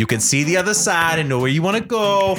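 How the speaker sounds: hammy Trump rally brag about a wall; Donald Trump impression. Host showing off his Trump voice to his cohost. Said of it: "I told you I'm working on it".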